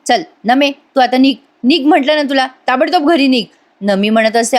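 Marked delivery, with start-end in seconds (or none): 0.1-3.4 irritated scolding, pitch raised; acted annoyance, higher than usual; annoyed. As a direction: order someone home, fed up. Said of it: "यशा आता खूप चिडतो".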